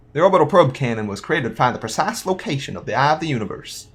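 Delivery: lightly voiced cowboy. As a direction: read it out with a hint of cowboy accent. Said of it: "like, a cowboy voice".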